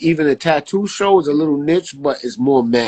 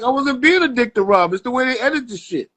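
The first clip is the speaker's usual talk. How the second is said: higher pitched, protesting; defensive; 10 semitones higher than usual. Retold or imitated. Barber retelling his defence to friends, higher and exasperated.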